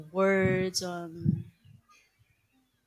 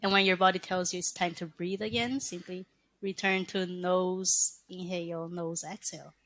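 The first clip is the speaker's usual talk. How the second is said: guided breathing; 3 dB quieter than usual. Shown as a demonstration.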